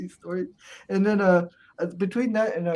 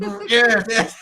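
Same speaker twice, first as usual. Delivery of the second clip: Iron Sheik impression; 5 semitones higher, 8 dB louder, slower than usual.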